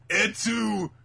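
high, loud, drawn-out accusation; mock betrayed cry. Acts betrayed villain's cry.

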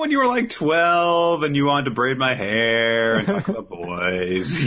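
mock sweet teasing; teasing reminder. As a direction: needle her about her girlish past. Teasing the grown-up Merlin.

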